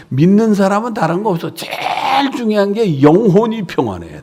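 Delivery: loud, rising pulpit preaching voice; full-force preaching. Acted. Pastor exhorting the congregation, full-force preaching.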